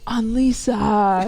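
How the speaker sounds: very slow, drawn-out name, imitated; mom's astonished cry. Mom opening the door to her daughter, astonished. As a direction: stretch the name out in mock disbelief.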